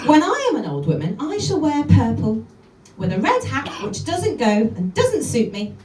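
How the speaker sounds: brisk lively recitation of a poem; poem reading. Acted. Comedian reads Jenny Joseph poem to the audience: lively recitation. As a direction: read it out with relish.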